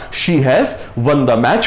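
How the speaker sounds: very slow, word by word; slow example read. Shown as a demonstration. Teacher showing the perfect tense example, very slow. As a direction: spell the sentence out slowly for learners. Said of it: "हमने कहा".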